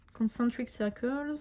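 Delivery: French-accented English, read out carefully and slowly. Real, not acted. Reading card names aloud to viewers, French accent. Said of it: "Avec mon super accent".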